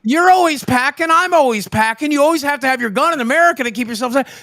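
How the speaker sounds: mock-earnest high voice; high-voiced character. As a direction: lecture the newcomer in a squeaky character voice. Plays a high-voiced character in practice.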